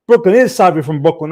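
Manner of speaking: put-on Brooklyn accent. Stream host teasing a Brooklyn viewer, mock Brooklyn accent. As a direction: ham up a Brooklyn accent for the chat. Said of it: "that's my Brooklyn accent".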